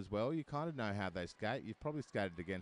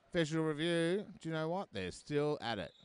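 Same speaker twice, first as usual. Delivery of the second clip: excited announcement; 8 semitones higher than usual. Real, not acted. Announcing review still ongoing.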